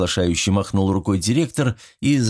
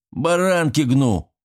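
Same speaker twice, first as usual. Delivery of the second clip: higher, slow mocking bark; 8 semitones higher, slower than usual. Caretaker barks a retort at his son, barking. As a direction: snap the retort back. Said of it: "рявкнул Степан Григорьевич".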